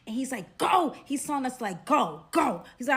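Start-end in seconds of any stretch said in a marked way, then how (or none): 0.6-0.9 loud, raised-pitch order; imitated urgent command. Storyteller voices the man telling them to run, loud urgent command. 1.9-2.6 imitated urgent command. Man repeats order to flee.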